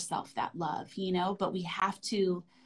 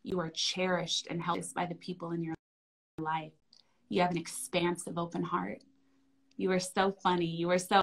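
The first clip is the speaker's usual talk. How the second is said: tender affirmations. Shown as a demonstration. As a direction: reassure a small child gently. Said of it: "And then I'll usually say".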